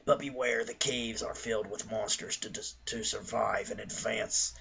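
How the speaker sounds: mock-serious adventure map narration; dramatic reading. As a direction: read it like an epic quest narrator. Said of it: "Stop s-, reading like that".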